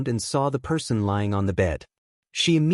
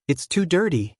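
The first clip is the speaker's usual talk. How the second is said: muffled voice; 6 semitones higher than usual. A narrator's reading. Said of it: "said in a muffled voice".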